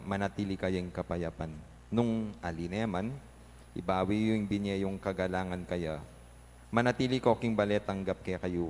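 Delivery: measured, solemn proclamation from the pulpit; gospel reading. Acted. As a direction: read it as the word of God to the congregation. (pagbasa ng ebanghelyo nang taimtim)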